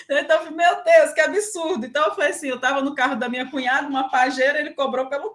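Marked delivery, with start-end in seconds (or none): 0.6-1.9 exclamação chocada e alta; espanto indignado. Retold or imitated. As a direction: reage ao preço absurdo com espanto. Indignada com o preço. (indignação espantada com o preço)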